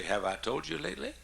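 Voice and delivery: lightly voiced affectionate wife; coy affection. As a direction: imitate a wife's sweet, coy question. Voicing wife's affectionate bedtime question.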